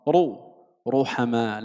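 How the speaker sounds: thick r with u in رو and روحما; heavy ra. Shown as a demonstration. Teacher shows ra with dammah, heavy ra. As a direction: sound رو heavy, then the same ra in روحما. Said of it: "حكم الراء التفخيم".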